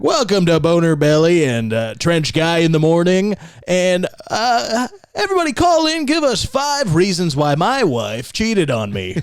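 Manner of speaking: cheerful DJ cracking into bitterness; bitter radio host. Pretend. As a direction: announce the show, then vent. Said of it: "morning radio guy talking about his divorce".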